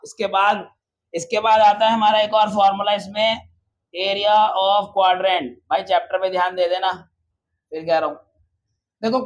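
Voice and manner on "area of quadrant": slow term. Shown as a demonstration. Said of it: "teacher slowly spells out term".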